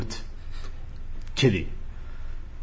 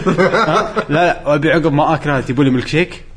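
laughing; 4 semitones higher, 4 dB louder than usual. Real, not acted. Laughing joke about cinema service.

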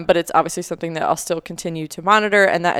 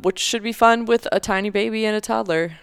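higher-pitched sarcastic mock enthusiasm; 4 semitones higher than usual. Real, not acted. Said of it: "I say that with utmost sarcasm".

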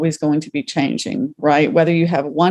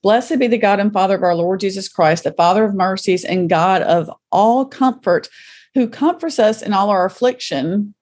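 scripture reading; 2 semitones higher than usual. Acted. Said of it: "I'm gonna read the first part".

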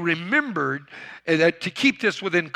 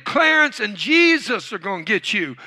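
parrot's warning call; 4 semitones higher than usual. Retold or imitated. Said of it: "and the voice said it again".

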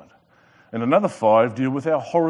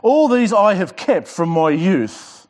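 slow, loud and high, "I" pressed hard; proud ruler leaning on "I"; stress on I; 4 semitones higher, 5 dB louder, slower than usual. Acted. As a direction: drag out "All these I have kept" and stamp the "I". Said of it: "underline the word I".

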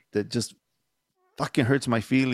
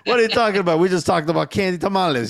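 laughing, louder and higher; laughing disbelief; 5 semitones higher, 4 dB louder, faster than usual. Real, not acted. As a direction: laugh it out in mock outrage at your friend. Laughing mock outrage at friend.

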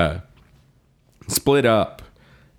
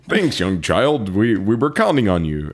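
imitating Gazelle Man. Gazelle Man to the kid he counted on, lightly imitated hero voice. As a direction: draw out the greeting, a hint of hero. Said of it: "he did talk like that".

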